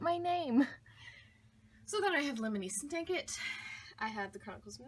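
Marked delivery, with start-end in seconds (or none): 0.0-0.7 higher, louder, proud; delighted proud emphasis. Real, not acted. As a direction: beam as you stress my. Stressing her own name.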